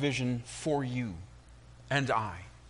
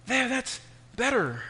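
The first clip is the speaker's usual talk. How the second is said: relieved sigh; 10 semitones higher than usual. Acted. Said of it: "I said".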